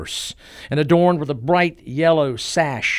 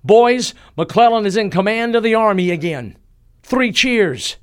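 high, loud call to the troops; loud shout; 7 semitones higher, 5 dB louder than usual. A narrator's reading. Officer announcing to the troops that McClellan is back, shouted loudly. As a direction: shout the news out to the men. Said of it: "in a loud voice ... shouted".

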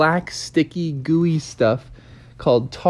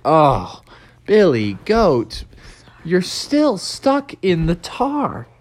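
slow exasperation; 4 semitones higher, slower than usual. Acted. Froggy exasperated with the goat.

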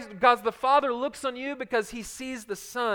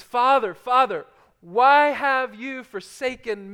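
anguished cry; 3 dB louder, slower than usual. Acted. Preacher voices Jesus crying out.

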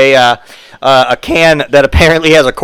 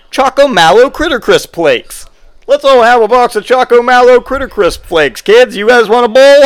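excited ad voice; 6 semitones higher than usual. Pretend. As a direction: pitch it to the kids like a commercial. Mock commercial, building excitement.

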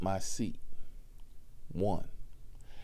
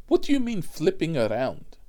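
mimicked passenger shout; 6 semitones higher, 6 dB louder than usual. Passenger quoted.

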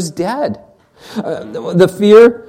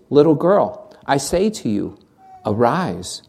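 soft, low, gentle call to wake; tender command; 4 semitones lower, 5 dB quieter than usual. Acted. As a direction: speak gently to a sleeping child. Jesus raises the girl.

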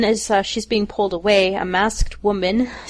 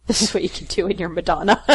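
laughing echo; faster than usual. Real, not acted. Repeating friend's line amused.

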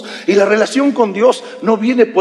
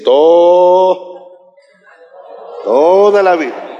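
first word of "toda la Biblia" held very long; stretched emphasis; 3 dB louder, much slower than usual. Shown as a demonstration. Pastor shows all Bible from Genesis, long-held "toda". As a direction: draw out "toda" in one long sustained vowel. Demonstrating span of whole Bible.

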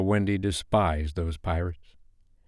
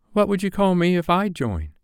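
put-on high-pitched small boy; demanding Michael; 11 semitones higher than usual. Michael asking Hook for a pirate name, high and demanding. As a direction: pipe up eagerly as a little boy. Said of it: "Michael demanded".

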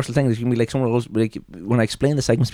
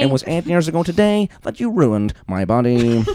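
raised mock bulletin cadence; newsreader as parent; 4 semitones higher than usual. Host as newsreader parent to child, deadpan bulletin intonation. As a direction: report a grievance like a headline. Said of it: "Imagine if one of them".

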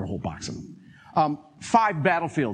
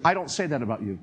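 lightly lowered, gentle; gentle divine voice. Retold or imitated. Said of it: "this voice came and said".

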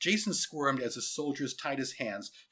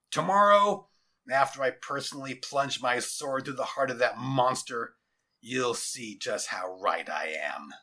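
a hint of menacing commander; lightly voiced grim general. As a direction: vow it grimly, dropping at the end. General vows to kill the monster.

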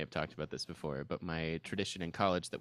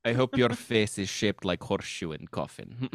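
put-on louder, lightly Russian-accented curse; mock Russian accent; 6 dB louder than usual. Friend adding another Russian theatre curse, mock accent. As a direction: deliver the curse like a dour Russian. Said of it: "in Russian dialects".

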